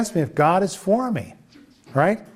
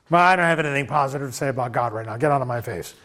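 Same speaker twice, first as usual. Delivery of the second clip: stubborn grumble; 4 semitones lower, faster than usual. Retold or imitated. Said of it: "Don't dig your heels in".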